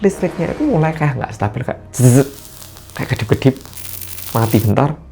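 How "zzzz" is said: buzzing zzz of failing lights; short vocal crackle of faulty power; imitated electric buzz. Imitates flickering electricity in ghost story.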